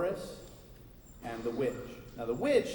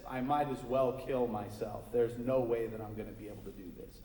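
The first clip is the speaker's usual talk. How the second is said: sad; 5 semitones lower than usual. Acted. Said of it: "very sad and upset".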